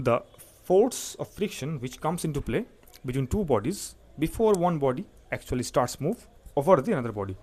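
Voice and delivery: slow, phrase by phrase, with pauses; slow explanation. Real, not acted. Teacher defining friction for students, slow and deliberate. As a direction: spell out the definition unhurriedly. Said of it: "আস্তে আস্তে বলছি জিনিসটা".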